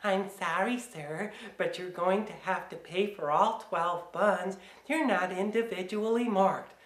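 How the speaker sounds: lightly voiced apologetic clerk; imitated store clerk. Customer imitating a clerk refusing to split buns, mock-apologetic. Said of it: "I know what you're gonna say".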